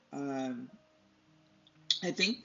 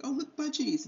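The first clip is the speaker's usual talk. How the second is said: high, bright mock delight at the pet store; excited pointing out; 10 semitones higher than usual. To her husband at the pet store, mock excited. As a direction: squeal it like spotting something fun. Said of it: "I'm like".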